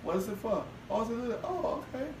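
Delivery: reluctant acceptance. Pretend. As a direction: say yes while clearly not meaning it.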